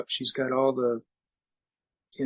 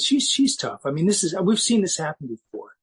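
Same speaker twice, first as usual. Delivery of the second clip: higher, louder, insisting she'll pull through; disbelieving protest; 4 semitones higher, 4 dB louder than usual. Retold or imitated. Father protesting to the doctors in raised disbelief. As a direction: push back against the news in disbelief.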